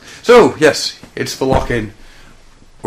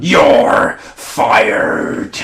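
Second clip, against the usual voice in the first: loud cheerful firing; mock boss; 6 semitones higher, 8 dB louder than usual. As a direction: bark it like a TV boss.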